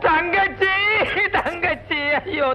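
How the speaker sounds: slow, fading hammed-up sobbing; hammed-up wailing. Man fakes grief over his lost sister, slow hammed-up wail. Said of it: "அழாதப்பா, அழாத".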